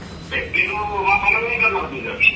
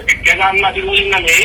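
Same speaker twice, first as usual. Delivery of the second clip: raised voice; 10 semitones higher, 5 dB louder than usual. Real, not acted. Caller shouting back during a heated phone quarrel, loud. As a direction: voice jumps high and loud mid-argument.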